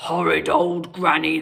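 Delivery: a hint of a sore wolf; wolf growling about Granny, mildly. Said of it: "the wolf growled".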